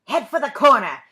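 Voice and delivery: loud urgent call to run; urgent warning. A narrator's reading. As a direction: shout the warning to flee. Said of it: "he remembered Uncle Julius saying".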